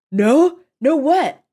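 high, loud, bewildered questions; frantic. Acted. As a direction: blurt it out in panic. Captive frantic for the answer.

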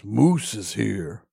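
lightly put-on bar announcer, drawn out; a slow, slightly put-on herald; different voice. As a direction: slowly announce someone's arrival, rising into the question. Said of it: "do a different voice".

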